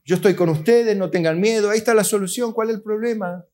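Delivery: a hint of God hushing a crying boy; God's voice. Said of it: "y Dios dice".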